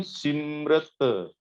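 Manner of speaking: ਸਿਮਰਤ slowly as "simm-rit", ending on t; final t sounded. Shown as a demonstration. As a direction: draw out ਸਿਮਰਤ and finish on a "t", not an "n". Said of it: "ਇੱਥੇ ਹੁਣ ਸਿਮਰਨ ਨਹੀਂ ਪੜ੍ਹਨਾ". (ਸਿਮਰਤ ਹੌਲੀ, ਅੰਤ ਵਿੱਚ "ਤ" ਸਾਫ਼)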